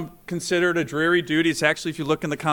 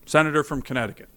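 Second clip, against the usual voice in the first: quick formal recognition from the chair; imitated chair calling on a senator; presiding officer's announcement; faster than usual. Presiding officer repeats whispered prompt aloud.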